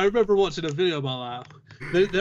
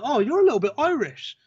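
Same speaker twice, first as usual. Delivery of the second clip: higher voice imitating a lady; imitated cashier lady; 8 semitones higher, 4 dB louder than usual. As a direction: put on a lifted voice for the lady. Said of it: "I remember this lady said to me".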